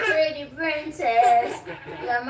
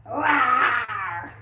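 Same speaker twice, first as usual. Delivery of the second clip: mock monster roar; 5 semitones lower than usual. Playing monster to scare girl.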